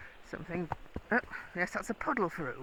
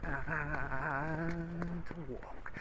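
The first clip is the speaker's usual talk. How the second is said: drawn-out "And", then "walk" falling; slow voice command with a falling "walk"; downward inflection. Real, not acted. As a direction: stretch out "And" and let "walk" drop, as a command to a horse. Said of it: "I did the downward inflection on the voice".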